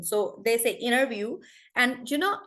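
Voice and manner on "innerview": interview as "innerview"; American rolled T. Shown as a demonstration. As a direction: drop the T in interview after the N. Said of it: "everything is rolled in American".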